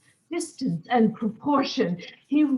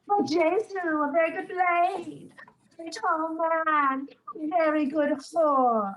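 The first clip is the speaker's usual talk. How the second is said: mocking fop voice; 5 semitones higher than usual. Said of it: "Such antic, lisping, affecting phantasms".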